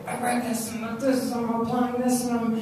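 lightly voiced enthusiastic caller; imitating an eager caller. Mentor reporting progress on the phone, lightly imitated. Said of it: "he'll call me up and he'll say".

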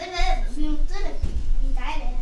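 shouting a warning over the game; loud warning. Real, not acted. Gamer yelling a warning to teammate, loud. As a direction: call it out loud to your teammate.

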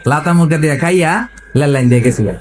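"লাতা" and "লেল" with L for R; mock Raipura accent, "লেল লাইন" for rail line; R becomes L. Preacher repeats the Raipura joke, "লাতা মুরগা" with L for R. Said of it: "ররে কি বলে".

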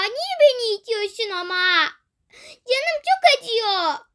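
slow, teary whimper; hurt child crying to the bully; crying in pain. Acted. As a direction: sob out the hurt.

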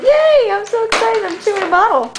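lightly voiced happy dog; chirpy voice for the dog; dog's voice. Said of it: "He's like".

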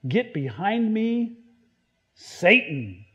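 slow, measured stern rebuke; sharp yet loving correction. Acted. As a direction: rebuke sternly but in love, taking your time. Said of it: "perhaps at least sternly, maybe sharply".

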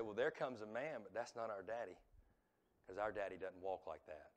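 low, soft acted quote; hushed children's wondering. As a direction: voice the watching children in an undertone. Children watching father return, hushed retelling.

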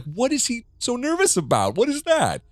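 very high, baffled squeal; high suspicious. Retold or imitated. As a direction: squeal it like you can't believe it. Her retold suspicion.

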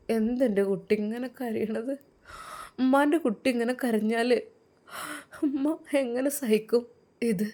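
a hint of a grieving old mother; tearful mother. Mother pleading with her crying son, lightly tearful.

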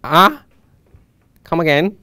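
put-on loud British accent. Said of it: "Do a British accent for the rest of the video".

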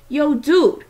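a casual newcomer's call, lightly voiced; new voice. A narrator's reading. Amos calling out from behind the kids, lightly voiced. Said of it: "said a new voice".

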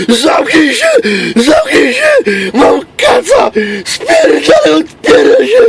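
put-on hoarse drunk yelling, cracking high; screaming hungover wreck who lost his voice. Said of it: "El Tigre wczoraj pochlał". (skacowany wrzask)

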